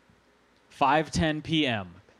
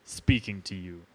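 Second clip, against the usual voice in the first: measured, grave proclamation read aloud; solemn reading; 3 semitones lower than usual. Acted. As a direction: read it like a cosmic broadcast. Reads alien message aloud.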